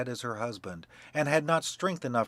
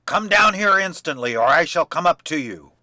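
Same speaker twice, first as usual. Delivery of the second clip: loud bellow, higher pitched; bawling shout; 4 semitones higher, 9 dB louder than usual. A narrator's reading. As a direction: bawl it down the tower as loud as possible. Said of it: "cried out as loud as he could bawl".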